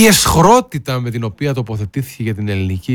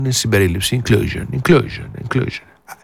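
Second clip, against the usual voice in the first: mocking repetition; 3 dB quieter than usual. Mocking the minister's buzzword.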